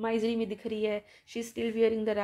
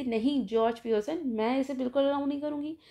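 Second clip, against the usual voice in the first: stern scolding; 3 dB louder than usual. Retold or imitated. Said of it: "वो बीच में बोल देती".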